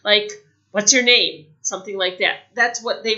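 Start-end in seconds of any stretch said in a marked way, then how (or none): 0.7-1.5 blunt, rude. Shown as a demonstration. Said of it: "come out strange".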